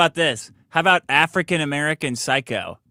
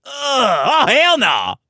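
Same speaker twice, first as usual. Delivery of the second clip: mock disgust; 7 semitones higher, much slower than usual. Disgusted at pig intestine.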